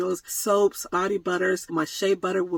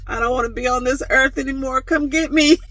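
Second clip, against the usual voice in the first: mock despair; 5 semitones higher, 5 dB louder than usual. Mock despair over decorations.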